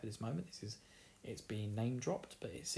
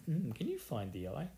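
higher-pitched innuendo, played for laughs; mock suggestive; 4 semitones higher than usual. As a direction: ask it as a cheeky double entendre. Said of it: "it just looked really dirty to me".

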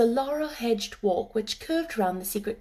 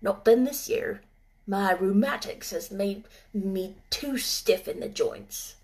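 grumbling. Acted. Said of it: "with a grumbling voice".

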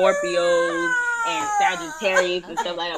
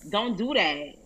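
put-on New York street accent; New York alter ego. Drunk alter ego from the Bronx warns co-hosts, New York accent. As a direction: talk like a tough New Yorker from the Bronx. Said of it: "That's Blanca".

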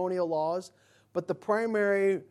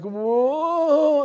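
long, loud, high whoa; hammed-up amazement, drawn out and swelling; awestruck crowd reaction; 8 semitones higher, 10 dB louder than usual.

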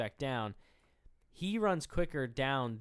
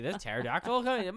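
laughing; 8 semitones higher, 6 dB louder than usual. Retold or imitated. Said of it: "it's like".

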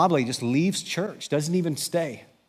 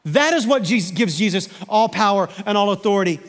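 much higher and louder, fervent sermon climax; full-force preaching; 11 semitones higher, 7 dB louder than usual. Acted. Pastor proclaims Jesus has all authority, full-force preaching. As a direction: proclaim it like a rallying cry.

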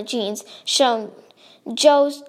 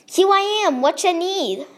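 higher-pitched New Jersey tough-guy voice; New Jersey accent; 6 semitones higher than usual. A narrator's reading. Joe turns up when called, in a mock New Jersey accent. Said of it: "said in a New Jersey accent".

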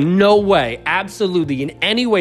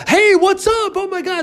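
much higher, gushing mock greeting; excited extrovert greeting. Extroverts greeting a shy introvert, squealing high with excitement. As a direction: bounce in like an overeager friend.

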